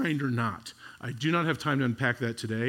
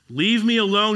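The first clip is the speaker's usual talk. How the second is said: angry God; 6 semitones higher, 7 dB louder than usual. Retold or imitated. God's angry words voiced by preacher.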